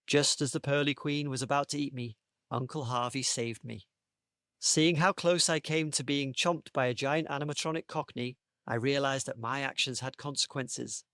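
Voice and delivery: measured read-aloud storytelling; story narration. Acted. Host reading his story pitch to the panel, story narration. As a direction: tell it like a children's story.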